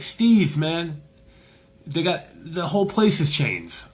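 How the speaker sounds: high, loud Jamaican-accented impression; Jamaican man. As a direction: talk up the shop as a high-voiced Jamaican. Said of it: "Jamaican guy".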